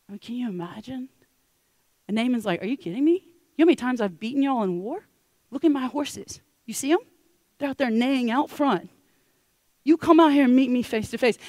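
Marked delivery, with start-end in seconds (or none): 2.6-11.4 ticked off. Acted. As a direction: act out wounded pride, incredulous and rising. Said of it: "you can tell Naaman is ticked".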